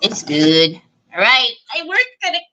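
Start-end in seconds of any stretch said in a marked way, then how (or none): 0.0-0.8 low, lightly voiced Terry. Crafter to her live viewers, a lightly voiced Terry. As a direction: drop lower for a hint of Terry. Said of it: "my Terry voice".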